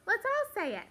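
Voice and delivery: loud, high call to the class; rally everyone to echo, high and loud; group call-out. Shown as a demonstration. Teacher cueing the class to echo a name, loud call-out. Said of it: "And I would say".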